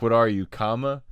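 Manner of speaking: "you" lifted and hung before spoken "comma"; exaggerated comma inflection. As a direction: mimic the pause after "What are you," loudly. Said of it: "I've never heard a comma in, in, in an inflection".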